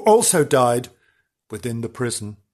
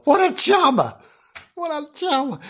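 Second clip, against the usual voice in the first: sarcastic; 13 semitones higher than usual. Acted. Sarcasm about a murderer.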